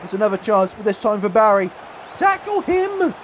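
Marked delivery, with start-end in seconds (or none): 2.1-3.1 urgent shout. Real, not acted. Defender chasing Barry.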